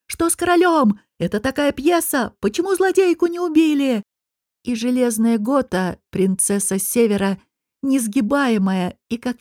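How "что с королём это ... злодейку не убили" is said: high, agitated shouts from the crowd; the audience yelling questions; crowd shouting. A narrator's reading. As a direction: shout in confused alarm. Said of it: "раздаются крики".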